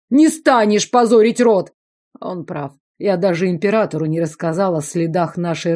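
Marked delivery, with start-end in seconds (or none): 0.1-1.7 high, loud defiant shout. A narrator's reading. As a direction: throw it back at him. Prisoner defiant. (громкий вызов)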